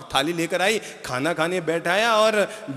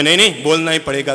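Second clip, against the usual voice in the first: pushy insistence; 7 dB louder, faster than usual. Retold or imitated. Angry man insists on answer.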